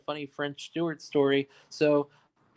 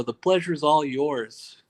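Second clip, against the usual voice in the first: busting balls; slower than usual. Retold or imitated. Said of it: "I like to bust balls. So I go".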